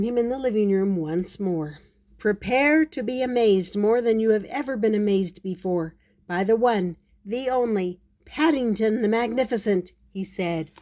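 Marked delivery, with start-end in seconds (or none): 2.2-9.9 grand showman's build-up; emphatic, theatrical announcement; stage magician. Acted. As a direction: introduce yourself as the star act.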